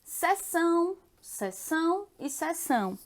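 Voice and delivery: sessão said identically each time, as se-SÃO; identical pronunciation. Shown as a demonstration. Teacher showing homophones to pupils, sessão pronounced alike each time. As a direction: demonstrate the same sound in every sessão. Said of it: "apresentam a mesma pronúncia".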